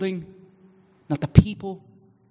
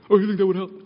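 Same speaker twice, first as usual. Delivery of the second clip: sarcastic; faster than usual. Acted. Sarcastic reply to himself.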